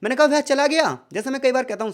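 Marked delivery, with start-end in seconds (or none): 0.3-1.0 वह चला गया asked higher as a question; question tune. Shown as a demonstration. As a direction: ask it, doubting he left. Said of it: "मैं प्रश्न पूछ रहा हूँ".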